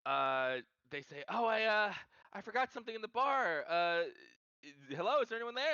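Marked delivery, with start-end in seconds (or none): 1.3-5.7 lightly mimicked man's voice, higher and hesitant; lightly put-on higher voice, a quick impersonation; Cliff's voice. Player mimics a bar-goer at a locked door, lightly impersonating. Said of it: "in Cliff's voice".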